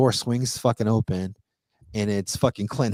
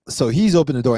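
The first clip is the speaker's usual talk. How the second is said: ordinary talk, nothing marked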